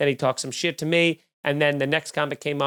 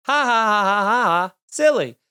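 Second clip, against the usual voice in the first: higher, louder fake ha-ha-ha; mocking laugh; 4 semitones higher, 4 dB louder than usual. Mocking the heckler with a hammed-up, louder fake laugh. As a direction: laugh at him like it's a kids' joke.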